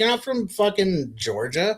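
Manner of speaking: high, incredulous jeer; mock disbelief. Continues the mocking quote.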